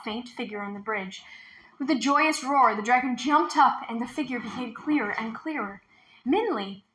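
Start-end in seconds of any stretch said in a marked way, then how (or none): 6.3-6.8 glad call, rising louder and higher; joyful shout. A narrator's reading. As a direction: shout with joy at her return. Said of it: "Dragon shouted".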